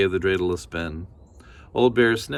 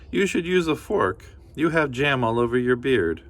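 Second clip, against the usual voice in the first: lightly voiced old woman, a bit higher; a hint of a cheerful granny; kindly grandmother; 5 semitones higher than usual. Baba Brena thanking the bear, lightly voiced granny. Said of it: "Baba Brena laughed".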